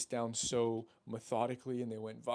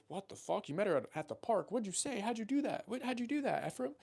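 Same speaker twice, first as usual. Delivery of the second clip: mock disbelief; 8 semitones higher than usual. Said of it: "they're gonna go".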